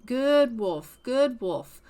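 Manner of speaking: placating singsong, pitch rising and dropping; anxious soothing. Acted. Frightened woman calming a little wolf, anxious soothing. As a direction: coax the animal like a nervous dog owner.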